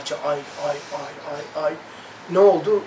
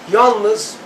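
retold cry to God; 5 dB louder, much slower than usual. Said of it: "diye bağırdım".

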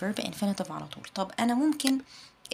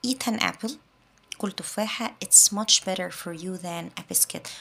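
calm advice; much slower than usual. Shown as a demonstration. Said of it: "النصيحة ما بيكونش فيها اي ستريس".

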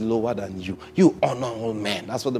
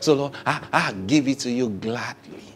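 earnest prayer voice, a touch lower; spoken prayer; 3 semitones lower than usual. Shown as a demonstration. Pastor models a tithing prayer for the congregation, earnest prayer. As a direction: pray it like you mean it. Pastor praying aloud as example.

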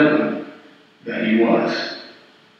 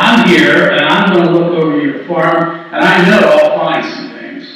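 mildly cocky, louder official; arrogant agent; 5 dB louder than usual. Acted. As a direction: throw your weight around a little. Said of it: "this guy is really arrogant".

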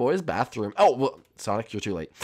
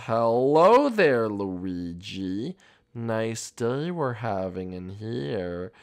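creepy greeting; much slower than usual. Pretend. Creepy greeting to cornered player.

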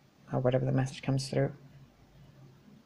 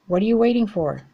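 "waiting" pushed higher and louder, falling at the end; pressing shout; 6 semitones higher, 6 dB louder than usual. Real, not acted. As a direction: demand it, almost shouting.

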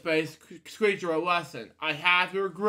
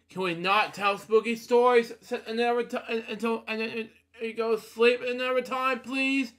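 pleading; 6 semitones higher than usual. Real, not acted. Reader pleads with listeners.

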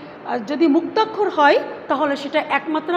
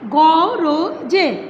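syllable by syllable; 4 dB louder, much slower than usual. Shown as a demonstration. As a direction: say গ, র, জে as separate open beats. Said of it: "এখানে বলতে গিয়ে". (অক্ষর আলাদা করে উচ্চারণ)

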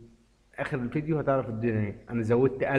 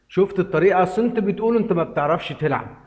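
higher, louder triumphant brag; excited brag; 5 semitones higher, 5 dB louder than usual. Real, not acted. Winner teasing viewer who says he can't play, louder gloating. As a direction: gloat at the doubter. Bragging after a win.

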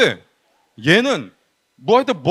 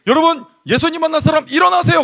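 high, projected summons; pastor's altar call; 8 semitones higher, 4 dB louder than usual. Retold or imitated. Youth preacher quotes the pastor calling believers to stand, raised voice. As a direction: imitate a pastor calling people up. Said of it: "목사님이".

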